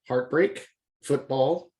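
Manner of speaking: both syllables hit evenly hard; spondee stress. Shown as a demonstration. Teacher demonstrating equal stress on both syllables. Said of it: "two stress syllables on both".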